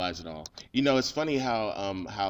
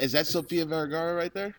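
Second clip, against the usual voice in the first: usual speaking voice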